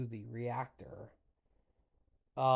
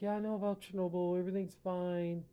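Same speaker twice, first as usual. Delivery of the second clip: high, fast, breezy brush-off; higher, louder, carefree mockery; mock dismissive official; 7 semitones higher, 4 dB louder, faster than usual. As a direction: toss it off like a clueless boss. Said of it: "He's like".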